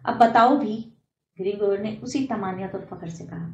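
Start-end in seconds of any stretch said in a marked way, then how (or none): 0.0-0.9 loud, exasperated demand; priest's temper rising at the stalling poet, loud and exasperated; losing his temper. Acted. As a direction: snap at him to get on with it. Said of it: "پارا چڑھنے لگا".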